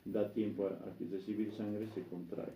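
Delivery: measured, unhurried explanation; calm resting heartbeat. Shown as a demonstration. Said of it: "si late a sesenta por minuto".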